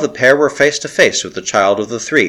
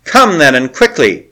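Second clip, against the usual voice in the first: high, loud taunting start; jeering; 4 semitones higher, 4 dB louder than usual. Acted. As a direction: taunt them, mocking their courage. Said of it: "she jeered".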